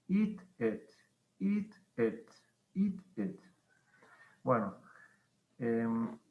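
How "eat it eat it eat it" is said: "eat" long and high, "it" short; sing-song drill of "eat" against "it". Shown as a demonstration. Teacher drilling long and short I for the class. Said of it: "la primera es una I larga".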